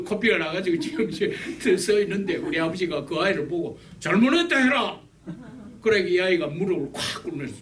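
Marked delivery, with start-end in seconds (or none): 4.0-5.0 stern order. Retold or imitated. Father ordering apology again.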